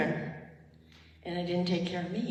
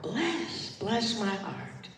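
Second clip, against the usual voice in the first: slow gentle affirmation; 2 semitones higher, slower than usual. Shown as a demonstration. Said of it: "And just say, with me".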